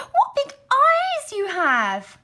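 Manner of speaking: very high, crying out slowly; a little girl on the edge of tears; frightened girl. Acted. Girl scared of granny's face, crying out high.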